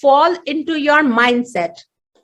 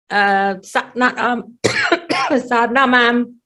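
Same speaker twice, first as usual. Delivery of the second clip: sore throat; 2 semitones lower, slower than usual. Real, not acted. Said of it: "my throat is choking because I'm just recovering".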